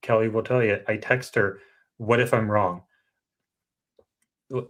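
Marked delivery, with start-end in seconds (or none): none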